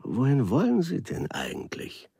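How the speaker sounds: sympathetic. Acted. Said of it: "erkundigte er sich teilnehmend".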